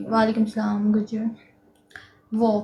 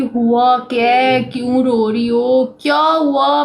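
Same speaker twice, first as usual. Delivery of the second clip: louder, urgent questioning; worried mother; 2 semitones higher, 6 dB louder, slower than usual. Retold or imitated. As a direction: demand to know what happened. Mother asks in alarm.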